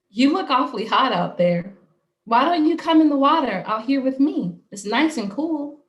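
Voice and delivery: lilting, inviting mermaid; pleasant, reassuring mermaid. A narrator's reading. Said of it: "mermaid's voice that was pleasant and reassuring".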